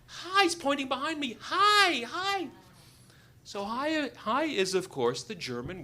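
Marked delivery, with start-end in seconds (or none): 0.0-0.4 high, loud repeated hails; excited high-pitched calls; frantic calling. Retold or imitated. Fisherman warning, pointing behind him. 1.4-2.5 high, loud repeated hails; excited high-pitched calls; frantic calling. Retold or imitated. Fisherman warning, pointing behind him.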